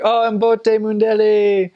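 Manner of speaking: high, slow, drawn-out mock delight; delighted greeting. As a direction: imitate locals thrilled to greet you. Locals delightedly greet him, acted out.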